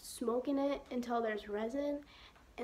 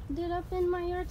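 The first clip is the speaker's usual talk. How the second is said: talking through hiccups; hiccuping mid-sentence; 6 semitones higher than usual. Real, not acted. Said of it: "Sorry, I have the hiccups".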